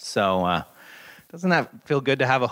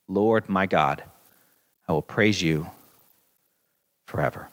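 lower, softening psalm ending; 3 semitones lower than usual. Acted. Pastor closing the psalm reading, low and fading. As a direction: let the last praise settle and fade.

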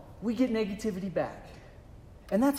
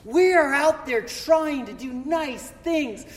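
raised, exasperated mock rant; retold anger; 5 semitones higher than usual. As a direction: replay the indignation at the email. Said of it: "I was angry because I was like".

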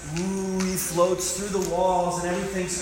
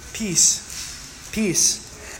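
whispered peace, drawn out; breathy hush. Shown as a demonstration. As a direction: let the word fall into a whisper. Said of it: "repeats the word softly".

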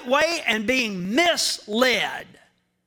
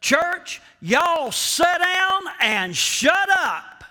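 mock dismissive culture; 6 semitones higher, slower than usual. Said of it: "Our culture today says".

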